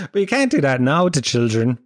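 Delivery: normal talking voice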